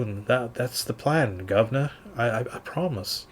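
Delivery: quiet, nervous bandit pleading with the governor. Acted. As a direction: mumble a scared excuse softly. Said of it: "clearly he's nervous".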